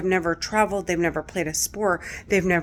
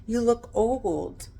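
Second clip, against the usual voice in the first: 1 sneering taunt; 4 semitones higher, 5 dB quieter than usual. Retold or imitated. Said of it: "they're like".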